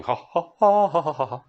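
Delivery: mock birdsong syllables; birdlike ha chant. Shown as a demonstration. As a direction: chirp it like a bird singing. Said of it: "it sounds like a, a bird singing".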